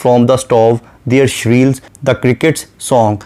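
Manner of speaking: very slow, measured poetic reading; a lightly recited line of poetry; slow poem recitation. Shown as a demonstration. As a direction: draw out each word of the verse.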